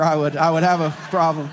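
ordinary delivery

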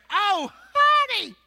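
high, slow, syrupy fake-sweet voice; sugar-sweet mock Southern belle; sugary Southern lady. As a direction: gush a fake compliment with a false sweetness. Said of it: "look at you and say".

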